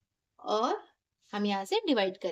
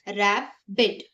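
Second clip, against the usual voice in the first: "रैबिट" broken in two, रै, बिट; split into syllables; 4 semitones lower, much slower than usual. Shown as a demonstration. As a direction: pause between the syllables of रैबिट. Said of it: "divide करना है".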